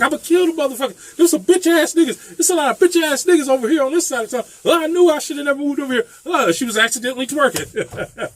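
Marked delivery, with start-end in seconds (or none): 0.0-6.0 angry rant. Retold or imitated. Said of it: "She was like".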